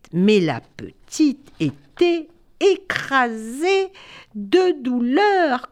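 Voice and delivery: put-on storyteller lingers on the girl's pain, slow and sad; dramatic slow sorrow. A narrator's reading. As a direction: stretch it out slowly with sorrow.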